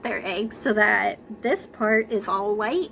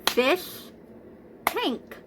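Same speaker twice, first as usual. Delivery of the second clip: split into syllables; 5 semitones higher, 4 dB quieter than usual. Shown as a demonstration. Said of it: "Let's try it".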